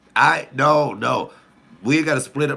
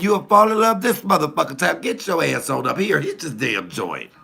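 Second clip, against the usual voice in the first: loud, high imitation of mama, settling by the end; scolding mama; 6 semitones higher, 4 dB louder than usual. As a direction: mimic mama giving rough love advice. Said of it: "She said".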